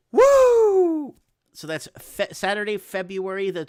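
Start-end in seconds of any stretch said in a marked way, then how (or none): 0.1-1.2 high, loud cheer; excited whoop. Real, not acted. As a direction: let out a big woo. Cheering a secret surprise.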